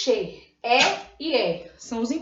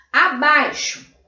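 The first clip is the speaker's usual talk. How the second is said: "Acima" said slowly, higher and louder; stressed new word; 3 semitones higher, 7 dB louder, slower than usual. Shown as a demonstration. Teacher presenting the next word to the class, slow and loud. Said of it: "agora junto".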